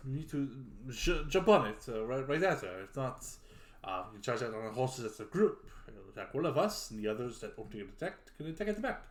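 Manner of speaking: lightly voiced French knight, hesitant. French knight planning the wyvern attack with companions, hesitant. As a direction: feel your way haltingly through the knight's plan.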